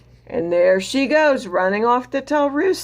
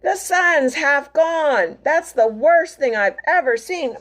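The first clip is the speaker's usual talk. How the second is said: alarmed goat; 5 semitones higher than usual. Acted. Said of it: "bleated the Goat".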